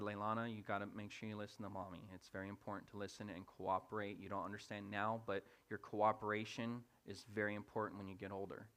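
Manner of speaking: soft, low-key parental counsel; acted patient, quiet dad; calm fatherly talk. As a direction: explain gently to a small child. Dad's calm talk after punishment.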